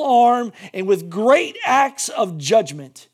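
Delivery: slow, strong declaration; proclaimed promise. Acted. Reading God's promise to Israel, slow and solemn. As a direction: proclaim it with weight.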